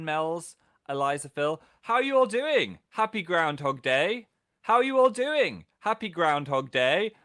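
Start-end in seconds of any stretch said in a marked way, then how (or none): 1.8-7.1 glitch-like repeat, "doing" and "Day" in identical tunes each time; exact repeated intonation. Pretend. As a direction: hit "How are you all doing" high, stretch "Happy Groundhog Day". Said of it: "replicating the exact intonation".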